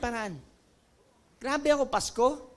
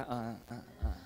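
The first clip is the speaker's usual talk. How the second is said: nervous laugh; 11 dB quieter than usual. Retold or imitated. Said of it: "pag nakita ka ba".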